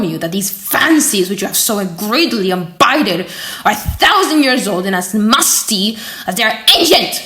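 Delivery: a lightly voiced professor, mildly heated and scornful; with warmth. Professor rebuking the student for studying alchemists, mildly heated. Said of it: "continued Monsieur Comte with warmth".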